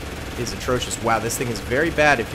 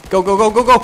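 loud, high, rapid-fire urging; excited push call; urgent rallying shout; 8 semitones higher, 7 dB louder, faster than usual. Real, not acted. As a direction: drive the team forward.

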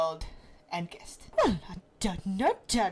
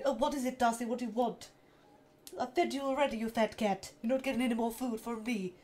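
Stewie voice to the cat. Retold or imitated. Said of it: "It's mostly boys that do Stewie".

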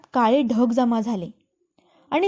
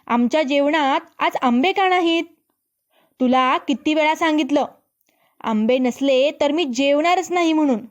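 angrily; 3 semitones higher than usual. Acted. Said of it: "राजकन्या रागानं म्हणाली".

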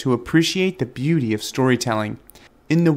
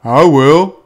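eager dog; 10 dB louder than usual. A narrator's reading. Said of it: "cried the dog".

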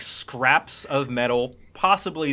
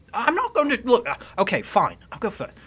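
protesting, then giving in; 8 semitones higher than usual. Acted. Sister agreeing to go first, grudging. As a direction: begin arguing, then relent grudgingly.

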